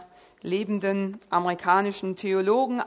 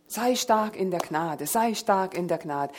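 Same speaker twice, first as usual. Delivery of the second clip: mock recital of a worn-out phrase, slightly lowered; rote platitude; 2 semitones lower than usual. Preacher mimics a phrase heard hundreds of times, rote platitude. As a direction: reel off the slogan like a tired cliché. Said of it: "so eine Floskel, die wir alle schon hunderte von Malen gehört haben".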